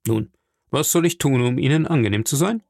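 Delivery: gently obliging question; soft, friendly tone. Acted. Journalist offering to please his friend, soft and friendly. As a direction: ask kindly how you can help. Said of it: "mit weichem, freundlichem Ton".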